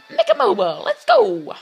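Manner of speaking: very high, loud squealed cheer; over-the-top excited yell; hyped shout. Pretend. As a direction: shout the name like a high-pitched hype man. Repeats maker's name as cheer.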